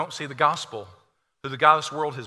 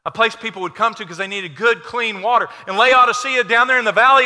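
fiery preaching; 8 semitones higher, 10 dB louder than usual. Acted. Preaching at full force.

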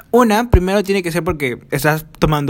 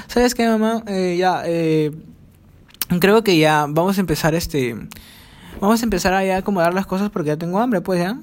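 put-on hesitant, slightly higher-pitched child asking mom; lightly acted wordy plea; elaborate request to mom; 4 semitones higher than usual. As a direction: announce your hunger in a roundabout, put-on way. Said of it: "obviamente no le hablé así".

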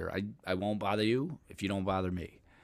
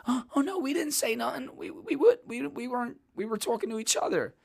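much higher, squeaky panicked denial; mock a frightened kid backing off fast; high-pitched whiny cowardly voice; scared squeaky voice; 14 semitones higher than usual.

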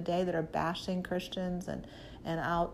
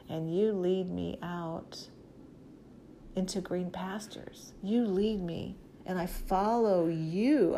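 humble prayer. Shown as a demonstration. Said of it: "I would say".

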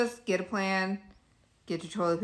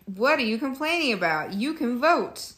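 lightly mocking, higher-pitched imitation; mock complainers' quote; 5 semitones higher than usual. Co-host imitating men who deny patriarchy, mock quote. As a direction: imitate dismissive men, stretching the last words. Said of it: "They're like".

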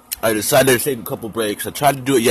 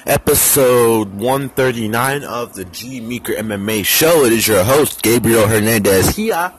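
podcast intro; slower than usual. Acted. Podcast host opening.

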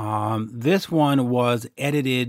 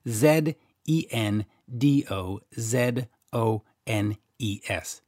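spelling out the letters slowly in a light Canadian accent; Canadian accent, each letter said slow and deliberate; slower than usual. Shown as a demonstration. Host to listeners, spelling the sponsor in a Canadian accent. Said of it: "Said that in my Canadian accent".

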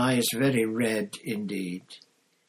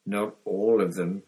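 hoarse; 4 dB louder than usual. Acted. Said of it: "said Hagrid hoarsely".

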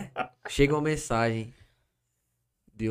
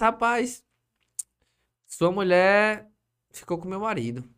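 slow, louder, higher, every word dragged out; dramatic accusation; 4 semitones higher, 5 dB louder, slower than usual. Retold or imitated. Wife of the other man telling him the news, slow and loud. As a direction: spell out the betrayal slowly and loudly. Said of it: "Ela disse".

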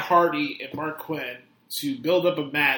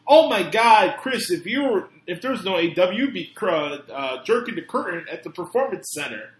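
mocking quote; 3 dB louder than usual. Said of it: "their wittiest, clever fucking line of".

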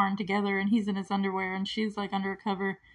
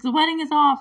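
higher, louder mock outrage; indignant announcement; 7 semitones higher, 7 dB louder than usual. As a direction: imitate a bride calling it all off. Retold angry break-up announcement.

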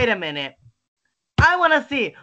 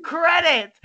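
furious shouting; 9 semitones higher than usual. Real, not acted. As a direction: yell it in disbelief. Furious over director's tiny filmography.

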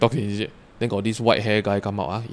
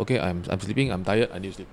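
retold sleepy refusal; 3 semitones lower, 5 dB quieter than usual. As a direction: lower voice, trailing away softly. Retold being woken, wants to sleep.

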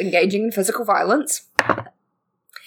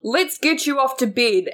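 slow, higher coaxing Santa voice; 4 semitones higher than usual. Acted. Santa sending a boy off to bed, slow and coaxing. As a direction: draw it out kindly as Santa. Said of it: "suddenly Santa goes".

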